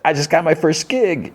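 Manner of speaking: high-pitched, drawn-out retold excitement; excited news. Woman tells Adrian about her first gig, excited. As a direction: announce it high and slow, mimicking her delight.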